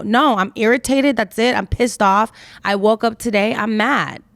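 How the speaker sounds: a touch of acted anger; irritated. Speaker answering people who want to know, mildly irritated.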